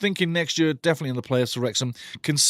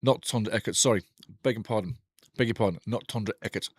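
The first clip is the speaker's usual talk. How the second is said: softer, mock-formal self-correction; mock apology; 4 semitones lower, 4 dB quieter than usual. Real, not acted. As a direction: apologise with theatrical politeness. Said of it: "I do apologise".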